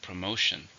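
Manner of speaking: "Promotion" with MO stressed; stress on second syllable. Shown as a demonstration. Teacher models the word after counting three syllables, "Promotion" stressed on the second. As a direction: model "Promotion", weak first and last syllables, strong middle. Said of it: "stress on the second".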